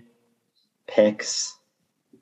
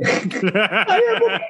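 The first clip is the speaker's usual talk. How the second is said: mock crying; slower than usual. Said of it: "freaking out and crying".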